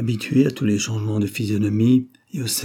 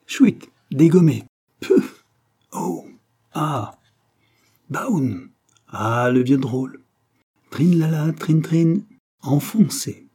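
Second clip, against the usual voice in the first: jeering exclamations; 6 semitones higher, 4 dB louder, slower than usual. A narrator's reading. Clerks mocking the departed old man, jeering exclamations. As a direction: burst of high, mocking cries. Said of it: "un torrent de cris, de rires et d'exclamations".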